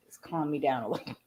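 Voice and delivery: soft breathy whisper. Real, not acted. Calming herself down while smoking, whispered. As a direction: whisper it to yourself to settle. Tense, asks to be calmed.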